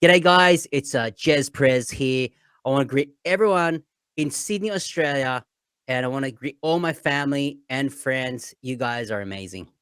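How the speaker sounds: lightly put-on broad Australian accent; Aussie accent. Shown as a demonstration. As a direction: greet everyone in a laid-back Aussie accent. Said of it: "I can really put an Aussie accent".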